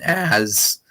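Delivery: voice crack. Real, not acted. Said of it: "sorry, voice crack".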